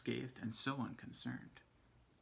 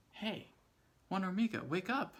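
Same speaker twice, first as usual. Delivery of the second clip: high, loud call to wake him; 7 semitones higher, 4 dB louder than usual. Acted. Ants call up the tree to wake Juan Hormiga, loud and high. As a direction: shout up to a sleeping friend. Ants calling to sleeping ant.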